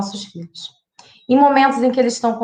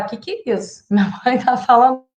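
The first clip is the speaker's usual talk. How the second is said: mock teen scoff. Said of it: "Ele vai falar".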